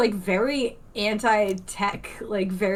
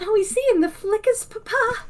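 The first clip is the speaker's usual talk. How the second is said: high, breezy transatlantic lilt; glamorous old Hollywood child; transatlantic accent; 12 semitones higher than usual. Retold or imitated. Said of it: "That's how I talked as a child".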